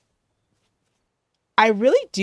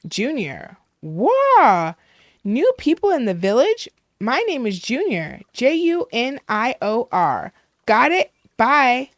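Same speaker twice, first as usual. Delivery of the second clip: higher, louder chirpy introduction; excitable villager; 4 semitones higher, 6 dB louder than usual. Acted. Junior greets a newcomer to the village, excitable and high. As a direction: gush at the newcomer, then sign off abruptly.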